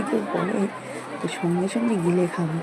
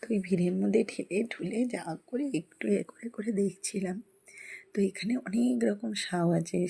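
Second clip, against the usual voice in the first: whispering at the exhibit; 6 dB quieter than usual. Real, not acted. Whispering near the snakes.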